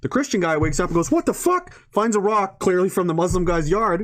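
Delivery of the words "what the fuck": high startled what the fuck; acted startled outburst. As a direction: pitch jumps high in shock. Neighbour wakes to smashed window.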